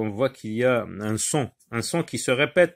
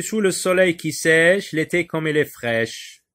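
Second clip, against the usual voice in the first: raised, measured verse reading; poem lines read out with higher pitch; poem recitation; 5 semitones higher, 5 dB louder than usual. Acted. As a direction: recite the couplet clearly for a class.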